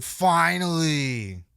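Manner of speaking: a hint of a grumpy old wrestler; mimicking Nash. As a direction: drag it out like Nash did. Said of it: "He literally said".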